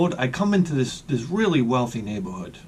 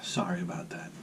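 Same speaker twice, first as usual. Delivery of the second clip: talking round a cigarette; cigarette in mouth. Real, not acted. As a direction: speak with a cigarette between lips. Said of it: "I gotta light a cigarette".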